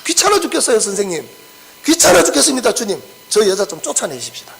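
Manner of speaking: mock the irritated disciples; annoyed complaint. Disciples complain about the woman. (여인이 귀찮은 제자들이 예수님께 높은 목소리로 짜증 섞어 불평)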